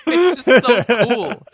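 bursting into loud, high laughter; real laughter. Real, not acted. Podcaster cracking up over a favorite scene, loud laughter. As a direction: laugh it out, delighted.

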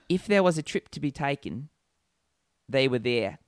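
put-on mild Australian accent on a tagline. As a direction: read it in a light Aussie voice. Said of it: "Australian accent".

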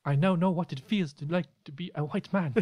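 solemn spirit guide in put-on accent; comic accented spirit revelation; Sam. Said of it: "You should do a Sam impression".

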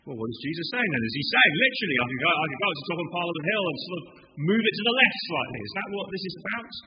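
skeptical question. Retold or imitated. Literal reader of the verses, incredulous question. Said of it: "read these verses out of context and think".

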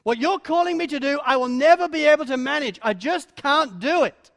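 overwhelmed. Acted. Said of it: "Moses is overwhelmed".

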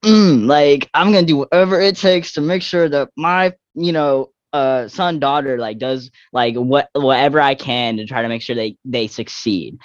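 mock the dad who'll do whatever it takes; imitating a sports dad. Teen athlete mimicking a rival's pushy sports dad, lightly voiced. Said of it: "sports dads that was like".

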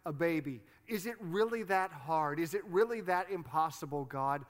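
pleading, exasperated prayer; Hannah. Retold or imitated. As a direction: imitate a woman challenging God. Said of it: "it's like she's saying".

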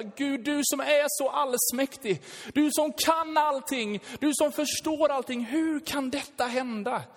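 3 cry out to God in disbelief; 4 pleading, questioning prayer voice; 1 anguished prayer. Retold or imitated. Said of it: "Där man tänker bara".

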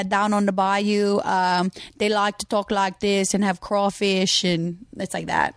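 put-on slow Cajun accent; slow bayou Cajun drawl. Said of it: "Can you do a Cajun accent?".

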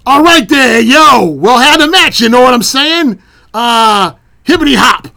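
Bianca Belair impression. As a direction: ham up a cool hip-hop swagger. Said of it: "pitch perfect Bianca Belair impersonation".

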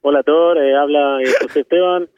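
put-on Spanish with a light Israeli accent; radio Spanish in an Israeli accent. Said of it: "במבטא כ-, עליי, במבטא י-, עברי-, ישראלי כזה". (ספרדית במבטא ישראלי)

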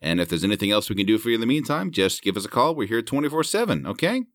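chirpy phone-rep patter with a buried insult; breezy service script, slipping in the insult; customer service voice. Pretend. Rep signing off a caller, cheerily polite. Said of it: "you could probably get away with that".

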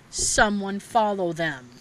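slow ghostly whisper-like warning; eerie spirit voice. Retold or imitated. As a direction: stretch it out slowly, spooky. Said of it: "all of a sudden I heard".

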